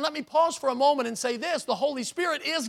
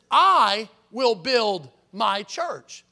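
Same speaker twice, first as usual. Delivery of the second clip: "I will build my church" very slow and louder, each word weighted; emphatic verse; 6 dB louder, much slower than usual. Shown as a demonstration. Pastor reminding the congregation of the verse, slow and stressed. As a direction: spell out Jesus' promise word by word.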